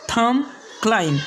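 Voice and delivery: थम, क्लाइम each ending on M; silent B. Shown as a demonstration. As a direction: say थम, क्लाइम with no final B. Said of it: "इस तरह से इसे pronounce करना है". (थम, क्लाइम में 'ब' न बोलें)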